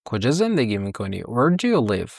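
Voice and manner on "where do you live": slow, careful English model; teacher modelling slowly; slow model question. Shown as a demonstration. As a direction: spell it out slowly for learners.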